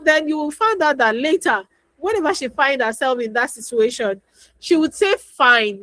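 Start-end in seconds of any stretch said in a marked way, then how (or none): 5.2-5.8 "fine" said out clearly, a little louder; child answering audibly now; loud enough. Retold or imitated. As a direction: make "fine" carry to the listener. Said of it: "loud enough that the person can hear her".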